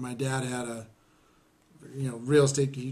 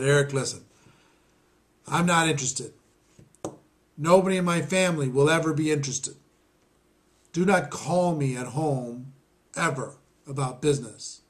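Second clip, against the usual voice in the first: stern refusal. Retold or imitated. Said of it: "He said".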